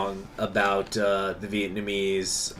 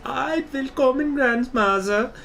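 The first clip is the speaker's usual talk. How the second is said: quoted dub voice; 13 semitones higher than usual. Retold or imitated. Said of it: "she says".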